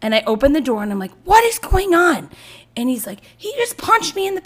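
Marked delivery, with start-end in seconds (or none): 1.2-2.3 high, drawn-out mother's demand; exasperated demand. Retold or imitated. Retells opening door on screaming kids. 3.4-4.4 high-pitched imitation of a wronged kid; upset tattling child.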